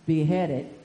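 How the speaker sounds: slow, loud, drawn-out royal voice; King Herod. Acted. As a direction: ponder it like a troubled king. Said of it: "King Herod said".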